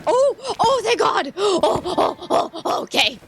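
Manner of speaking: high sudden burst of relief; relieved cry. Real, not acted. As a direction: yelp out in relief. Finds the spare incense.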